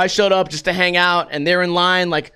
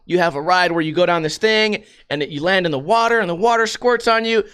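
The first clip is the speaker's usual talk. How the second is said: ordinary delivery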